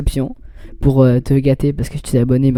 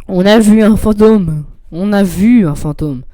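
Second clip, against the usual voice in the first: emphatic, raised-voice repetition; mock exasperation; 3 semitones higher, 4 dB louder than usual. Player insisting to Bob about the ghost, mock exasperation. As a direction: hammer it home, starting loud and slow.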